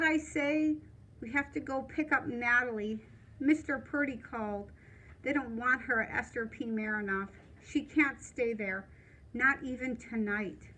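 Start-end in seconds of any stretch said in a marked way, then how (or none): 1.2-10.7 quiet, low-level urgency; hushed. Acted. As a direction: speak softly over a sleeping father. Wakes sleeping dad gently.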